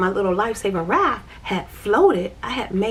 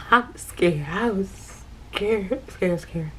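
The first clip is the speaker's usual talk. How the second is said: scared; much slower than usual. Real, not acted. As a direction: let the fear come back slowly. Recalling near drowning.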